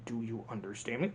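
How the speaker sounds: low, soft threat; villain quietly warning his brother; quiet menacing question. Retold or imitated. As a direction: ask it low and cold. Hopper's first quiet demand.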